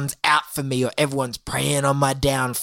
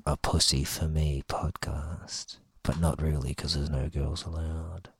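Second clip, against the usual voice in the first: hushed; 9 semitones lower, 8 dB quieter than usual. Pretend. Secret podcast hush.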